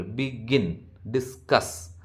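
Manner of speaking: "begin, discuss" stressed on -GIN and -CUSS; second-syllable stress. Shown as a demonstration. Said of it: "അത് second സിലബിളിലാണ് അവിടെ word stress".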